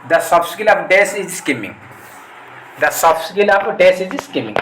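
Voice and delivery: very slow, spaced-out reading of the question. Shown as a demonstration. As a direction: dictate each word slowly. Rereading the question slowly. (ଧୀରେ ଧୀରେ ପ୍ରଶ୍ନ ପଢ଼ିବା)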